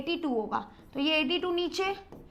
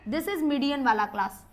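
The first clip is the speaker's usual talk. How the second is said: slow emphasis; 2 semitones lower, 3 dB quieter, slower than usual. Shown as a demonstration. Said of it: "teacher stressing key phrase".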